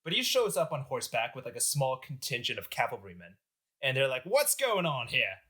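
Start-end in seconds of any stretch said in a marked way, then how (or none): 4.2-5.4 lightly put-on British accent, drawn out. French general arriving on horseback, British accent. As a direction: play a British officer, a little slower. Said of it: "he had a British accent".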